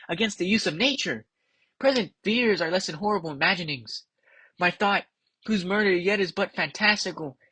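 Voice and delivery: softly recited Macbeth, pondering; Macbeth soliloquy. Acted. Macbeth puzzling over the witches' prophecy, hushed recital.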